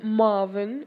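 drawn-out British-accented "Marvin". Shown as a demonstration. Storyteller demonstrating a practised word, British accent. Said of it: "accented word that I know".

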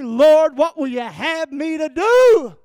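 loud, slow crying out to God; fervent cry to the Lord. Acted. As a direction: shout it up to the Lord like a plea. Voicing the believer's cry.

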